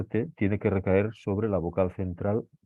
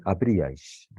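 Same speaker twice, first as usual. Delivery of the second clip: slow model word; slower than usual. Shown as a demonstration. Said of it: "Vamos a ver esta palabra".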